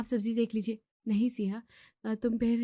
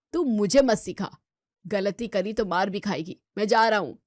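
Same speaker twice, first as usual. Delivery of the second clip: angry retort; 5 dB louder than usual. Acted. Brother snaps back and storms off.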